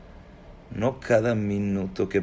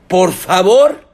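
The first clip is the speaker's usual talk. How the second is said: slow, loud, higher "please"; insistent plea; 9 semitones higher, 14 dB louder, much slower than usual. Acted. Upset woman on the phone refusing the callers, loud insistent plea. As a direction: cut in with an emphatic, drawn-out plea.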